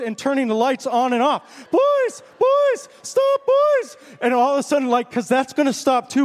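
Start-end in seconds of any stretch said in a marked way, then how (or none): 1.7-4.0 teacher shouting. Retold or imitated. Teacher yelling at two boys chasing through class, high shrill shout. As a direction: shriek at the boys to stop like a frantic teacher. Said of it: "and she's going".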